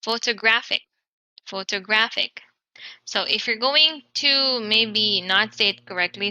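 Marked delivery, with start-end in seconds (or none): 0.0-0.8 photoGRAPHic, third syllable stressed; Photographic, hit GRAPH. Shown as a demonstration. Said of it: "You have to say this as". 1.4-2.4 photoGRAPHic, third syllable stressed; photographic, hit GRAPH. Shown as a demonstration. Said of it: "You have to say this as".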